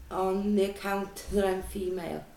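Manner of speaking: holding back a laugh; trying not to laugh mid-sentence; stifled laugh. Real, not acted. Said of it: "Sorry, I'm trying not to laugh".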